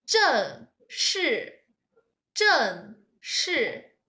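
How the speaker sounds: each syllable said slowly and clearly; careful tone demo. Shown as a demonstration. Teacher modelling 正式 for students to repeat, clearly. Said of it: "So listen carefully about the syllables".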